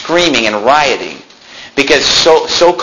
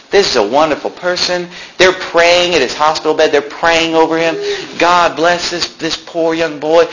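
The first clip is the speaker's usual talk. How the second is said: mocking praise; 5 semitones higher than usual. Preacher mocking the praise at the hospital bed, higher mock eulogy. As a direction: lay the sympathy on thick. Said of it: "They're saying how great".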